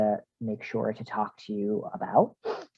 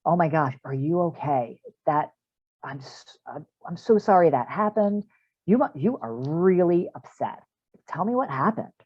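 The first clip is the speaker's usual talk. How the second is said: soothing parent; 3 semitones higher than usual. Shown as a demonstration. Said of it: "So you say".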